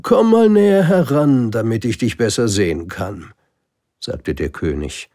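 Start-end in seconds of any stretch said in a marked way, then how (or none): 0.0-3.3 high, loud royal summons fading to calm; a king pleased to have a subject; proud king. Acted. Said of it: "ganz stolz darauf". (stolzer König, hoch und laut)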